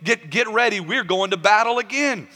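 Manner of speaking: rally the troops for a fight; acted commander's call to arms; rallying his men. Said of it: "He tells his men".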